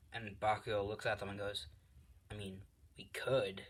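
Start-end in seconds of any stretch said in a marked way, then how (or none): 2.3-3.6 muttered aside. Acted. Bakugo brushes them off.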